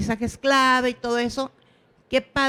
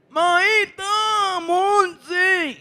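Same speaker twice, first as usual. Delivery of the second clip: put-on high, loud child's call across the room; 7 semitones higher, 3 dB louder, much slower than usual. Little boy finally calling out to his teacher, loud and high. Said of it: "me grita".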